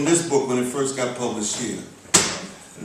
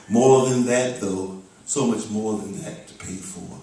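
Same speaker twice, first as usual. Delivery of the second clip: steady, rolling spoken-word recital; rhythmic poem with little pitch movement; poetry reading; 2 semitones lower than usual. Acted. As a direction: read it as stream-of-consciousness verse, phrase by phrase. Reads own poem aloud.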